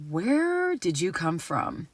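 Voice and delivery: soft, slow, low question; hushed wonder. Retold or imitated. Older woman to the stranger who comforted her, hushed wonder. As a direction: imitate someone quietly marvelling.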